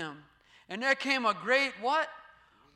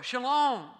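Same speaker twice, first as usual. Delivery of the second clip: a firm, louder Shalom; 4 dB louder than usual. Shown as a demonstration. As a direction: say Shalom with calm authority. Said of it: "He says, "Shalom".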